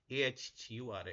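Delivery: very slow, letter by letter, ए एच यू आर ए then असुर; teacher slowly spelling अहुर against असुर. Shown as a demonstration. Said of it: "एस को आपने एच से replace कर देना".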